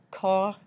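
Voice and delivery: cornichon in separate syllables, cor, nee, shon; sh sound. Shown as a demonstration. Teacher sounds out French for pickle, syllable by syllable cornichon. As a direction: break up cornichon, CH said as sh. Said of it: "C H making the sh sound in the middle".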